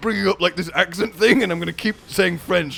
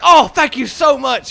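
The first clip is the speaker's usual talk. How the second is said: higher, mock-grateful stranger; lightly overdone gratitude; gushing thanks; 5 semitones higher, 4 dB louder than usual. Wallet owner thanking the finder, mildly gushing.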